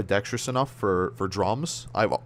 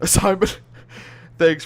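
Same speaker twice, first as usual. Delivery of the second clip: excited shout; 5 semitones higher, 6 dB louder than usual. Real, not acted. Thanking a donor excitedly.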